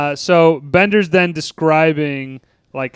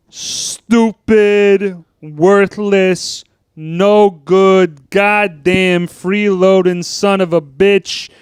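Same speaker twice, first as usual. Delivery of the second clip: louder, raised voices hurling insults, slow; abusive parents; 4 semitones higher, 4 dB louder, much slower than usual. Retold or imitated. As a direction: spit out the list of insults. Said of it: "Oh, mine? It's real easy".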